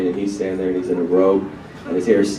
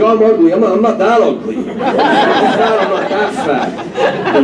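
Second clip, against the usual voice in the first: much higher, louder whiny impression of an insecure comic; Rodney complaining; 12 semitones higher, 4 dB louder, slower than usual. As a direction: do the rattled comedian seeing his double. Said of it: "he's like".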